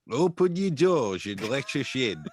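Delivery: hammy put-on accent for a Turkish knight; Turkish Knight's accent. Turkish Knight announces himself to the house, best put-on accent. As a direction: proclaim the rhyme in a lilting mock Turkish Knight accent. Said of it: "I'm gonna do my best accent".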